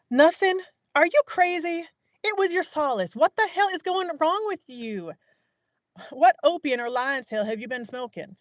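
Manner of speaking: high, loud, indignant woman's voice; lively stern woman. A narrator's reading. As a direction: scold him in a shrill-free high outraged voice. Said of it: "lively yet stern voice".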